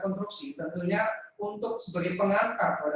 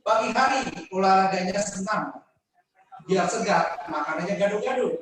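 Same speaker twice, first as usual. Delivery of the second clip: reciting a pantun. Acted. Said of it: "Pantun saya ini".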